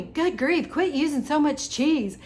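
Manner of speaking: imitating an angry viewer's scolding; mock yelling viewer. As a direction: bark it like an all-caps comment. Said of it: "she put it in all caps".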